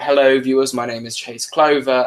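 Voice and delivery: put-on British accent that drifts toward Australian; shaky British accent. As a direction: introduce yourself in an amateur British accent. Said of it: "my British accent sounds a lot more like an Australian accent".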